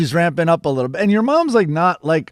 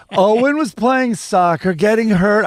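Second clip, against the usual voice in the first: imitated mother's accent; 4 semitones higher than usual. Friend mimics mom explaining her idea, rough accent imitation. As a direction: loosely imitate mom's accent, pitched up. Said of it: "I can't do the accent exactly".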